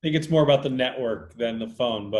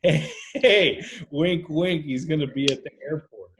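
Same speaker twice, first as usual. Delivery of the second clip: laughing tip-off; 2 semitones higher than usual. Retold or imitated. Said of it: "I just have to call and say".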